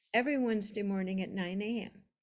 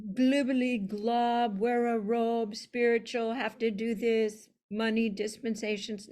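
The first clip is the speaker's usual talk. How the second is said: loud, droning send-up of spiritual jargon; lightly mocking, level-pitched list; mock dogma; 3 dB louder than usual. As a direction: rattle off the rules mockingly, a touch louder.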